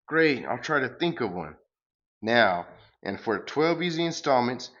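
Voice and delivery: lightly booming villain pitch; cosmic salesman. Acted. Galacticus bragging about his franchise, light booming voice. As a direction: sell it like a grand space huckster.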